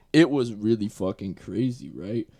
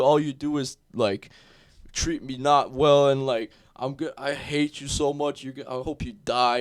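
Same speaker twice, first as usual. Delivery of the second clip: higher, raised mock rant of a furious kid; retold tantrum yelling; 4 semitones higher, 4 dB louder than usual. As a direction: imitate an eleven-year-old screaming at his stepmom. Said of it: "He's screaming a bunch of that".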